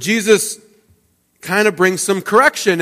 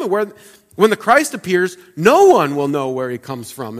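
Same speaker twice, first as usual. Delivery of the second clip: crowd voice; 6 semitones higher, 3 dB louder than usual. Retold or imitated. Preacher voicing the skeptical crowd.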